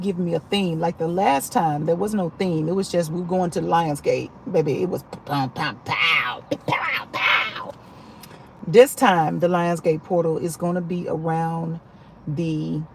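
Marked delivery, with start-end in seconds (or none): 5.3-7.7 punchy mouth-made explosions; playful "pow" noises, popping out; imitated blast sounds. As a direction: fire off pows like sound effects. Imitates blasts of last event.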